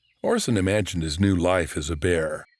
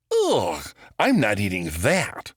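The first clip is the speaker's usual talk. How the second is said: disgusted; 2 semitones higher, slower than usual. Acted. Boy disgusted by fish.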